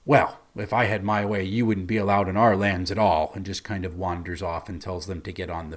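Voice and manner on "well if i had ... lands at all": lightly voiced snooty guard; a touch of haughty disdain, kept low; understated snooty putdown; snooty elf. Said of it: "very snootily goes".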